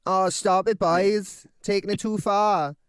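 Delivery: mock a friend upset at the bullying; mock tearful peacemaker. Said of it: "you cry when fucking people get bullied".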